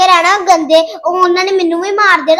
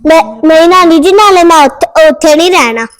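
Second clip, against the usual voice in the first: a louder insistent refusal; loud child protest; 6 dB louder than usual. Acted. Boy loudly tells grandmother he won't live there. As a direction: push back hard, he won't go there.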